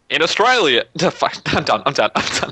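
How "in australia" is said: failed attempt at an American accent; higher, badly faked American accent. Correcting co-host's line, badly faked American accent. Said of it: "I can't do the American accent".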